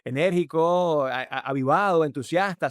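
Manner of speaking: lifted, drawn-out enthusiastic delivery; energetic, enthusiastic. Shown as a demonstration. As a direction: raise the voice with lively inflections. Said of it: "subo el tono de voz".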